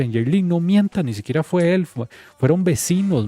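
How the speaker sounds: imitating angry retort. Man yelling back at girlfriend.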